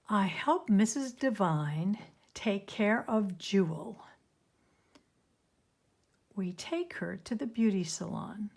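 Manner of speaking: put-on measured reading to children, with pauses between sentences; story read-aloud. A narrator's reading. Nancy explaining how she helps with Jewel, story read-aloud. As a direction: read clearly, leaning on the fancy words.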